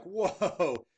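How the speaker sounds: a sudden high, loud whoa; startled double take, caught off guard; recognizing a famous cigar maker mid-stride; surprised whoa. Retold or imitated. Double take on spotting Drew.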